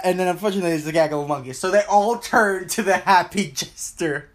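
wobbly warbling call audio; glitchy call audio. Real, not acted. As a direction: voice breaking up over a call. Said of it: "You keep glitching out".

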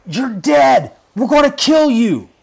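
high-pitched retold threat; imitated threatening shout. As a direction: yell the threat as the bystander did. Voices threatening man holding phone.

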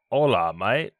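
put-on Aussie-accented Spanish with a rising end; Spanish in mock Australian accent. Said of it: "But speak it in Spanish".

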